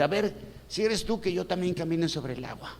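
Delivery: testing request. Acted. Acts Pedro testing Jesus.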